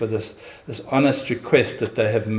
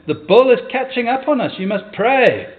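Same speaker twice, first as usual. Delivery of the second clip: high-pitched urgent warning, acted out; imploring; 10 semitones higher, 4 dB louder than usual. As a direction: plead as if danger is closing in. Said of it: "implored his companion".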